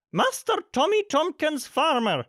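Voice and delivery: reading out. A narrator's reading. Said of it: "she read out".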